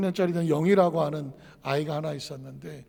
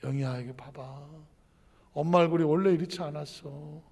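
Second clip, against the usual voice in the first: tender mother; 2 semitones lower, 5 dB quieter than usual. Retold or imitated. Mother gently shows the album.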